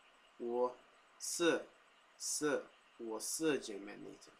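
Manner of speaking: slow, heavy Taiwanese Mandarin accent; thick Taiwanese accent. Shown as a demonstration. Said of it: "a very thick Taiwanese accent".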